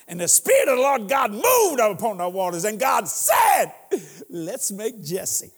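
booming biblical narration. Acted. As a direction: thunder it like the voice of God. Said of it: "and I quote scripture".

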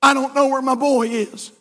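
earnest, building prayer; mother on her knees praying for her son; mother's prayer. Retold or imitated. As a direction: pray it, rising with each Lord. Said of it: "she was praying something like this".

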